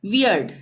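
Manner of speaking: वियर्ड with ई sounded apart from the next vowel; careful model वियर्ड, vowels sounded separately; separated vowels. Shown as a demonstration. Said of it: "ई का अलग उच्चारण हो रहा है".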